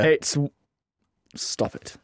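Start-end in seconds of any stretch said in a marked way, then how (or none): 1.3-1.9 unvoiced whisper aside; whispered stop it. Real, not acted. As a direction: hiss it under the breath. Fumbling with the cracker.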